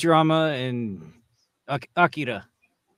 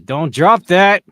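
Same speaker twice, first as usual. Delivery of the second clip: alarmed warning; 5 semitones higher, 9 dB louder, slower than usual. Real, not acted. Warning someone holding the case.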